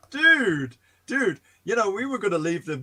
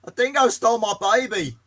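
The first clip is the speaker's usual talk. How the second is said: bad Australian accent; 5 semitones higher than usual. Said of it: "that wasn't supposed to be Australian".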